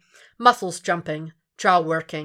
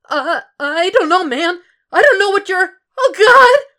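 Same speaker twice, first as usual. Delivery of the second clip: much higher, louder panicked pleading; babbling fear, pitched up and loud; terrified thug; 13 semitones higher, 11 dB louder than usual. Acted. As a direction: voice climbing into a yelp of pain. Thug panics under the knife.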